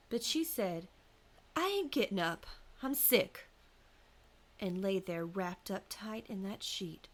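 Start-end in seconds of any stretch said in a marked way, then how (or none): 1.6-3.5 wife refusing. A narrator's reading. Wife refusing in folk tale.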